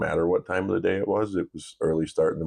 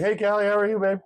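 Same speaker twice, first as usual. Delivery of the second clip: much higher, louder playful hey Callie; sing-song greeting back; 3 dB louder than usual. Retold or imitated. Dad echoing his daughter's greeting in a high playful voice. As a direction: copy her bubbly greeting right back at her. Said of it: "at first I was like".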